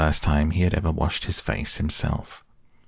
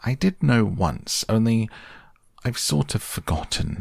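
put-on careless boy voice; 5 semitones higher than usual. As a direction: shrug it off as a boy. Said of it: "said Christopher Robin carelessly".

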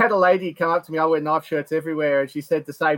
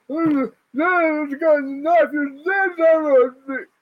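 high, wobbly mock drunk panic; 11 semitones higher, slower than usual. Drunk punters at the show, squealing high about the knife. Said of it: "they're all like".

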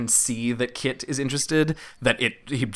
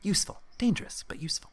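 soft, high, whispery kobold voice; whispery little creature, pondering; kobold alchemist; 9 semitones higher, 6 dB quieter, faster than usual. Acted.

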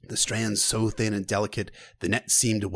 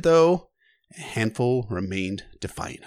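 usual speaking voice

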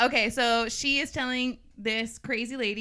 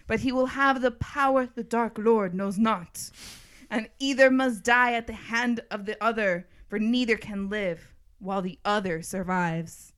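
solemn prophecy reading; 4 dB louder than usual. Acted. Host reading the prophecy to the others, portentous recital. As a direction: proclaim it like a prophecy.

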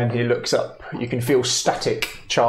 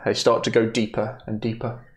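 measured, solemn scene-setting; unhurried storyteller voice; game master narration. A narrator's reading. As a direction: narrate a tragic farewell with long pauses.

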